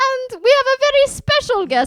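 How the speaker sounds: fake high squeaky voice. Introducing a very special guest in a put-on Munchkin-like voice. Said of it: "You're starting to get into, um, Munchkin territory".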